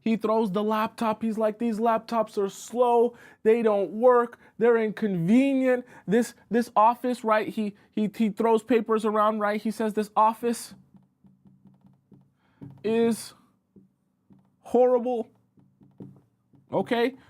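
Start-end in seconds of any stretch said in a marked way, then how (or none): 1.6-7.2 high-pitched tantrum, slow at the start; acted angry rant. Coworker ranting to the boss about bad laptops, high acted tantrum. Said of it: "He screams, he's yelled, he's throwing a tantrum". 9.9-15.3 high, drawn-out angry complaint; acted tantrum. Coworker complaining to the boss about the office, high drawn-out tantrum. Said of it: "He screams, he's yelled, he's throwing a tantrum".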